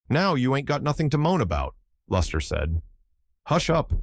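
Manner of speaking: exasperated scold, lifted up high; scolding Luster. Acted. Luster scolds Benjy at fence.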